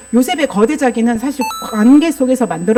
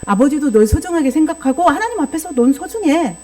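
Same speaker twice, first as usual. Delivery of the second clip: gentle fatherly reassurance. Shown as a demonstration. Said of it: "야곱은 어떻게 조율했어야 할까요".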